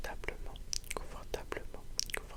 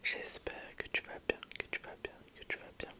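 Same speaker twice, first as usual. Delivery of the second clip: ASMR whisper. Real, not acted. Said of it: "une toute nouvelle vidéo A S M R".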